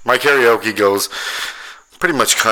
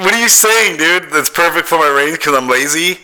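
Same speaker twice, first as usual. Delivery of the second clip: indignant disbelief; 9 semitones higher, 4 dB louder than usual. Real, not acted. Friend insulted his singing.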